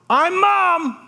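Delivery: high, loud call from across the room. Retold or imitated. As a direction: announce yourself eagerly from afar. Mother calls out from the corner.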